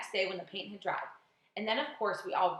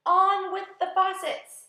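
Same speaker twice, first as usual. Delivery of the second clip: slow, much louder, higher faraway command; booming shout; 10 semitones higher, 10 dB louder, slower than usual. Acted. Faraway voice from the cloud shouting down an order. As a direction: boom it down from the clouds. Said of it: "it shouted".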